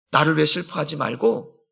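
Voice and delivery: ordinary talk, nothing marked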